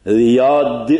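"ریاد" with a plain d at the end; spelled with d. Shown as a demonstration. Teacher showing the English spelling of Riyadh, deliberate.

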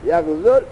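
یغزل with the final vav of یغزو left silent, running straight into the next word; vav dropped. Shown as a demonstration. Teacher showing students how to read it: vav dropped. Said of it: "واو را نخون".

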